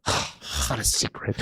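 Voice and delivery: slow, breathy deadpan sigh of a daughter; unimpressed daughter. Retold or imitated. Daughter unimpressed by dad's secret, slow deadpan. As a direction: let it out flat and tired, unimpressed. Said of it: "She used to get upset at me".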